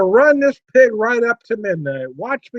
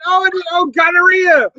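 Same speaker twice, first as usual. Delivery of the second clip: shouted punchline; 3 semitones higher than usual. Pretend.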